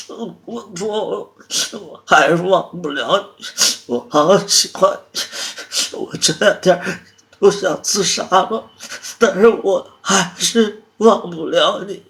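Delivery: loud, high sobbing confession; desperate tearful outpouring; crying. Acted. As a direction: wail it slowly, gasping between phrases. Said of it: "好了，你别哭了".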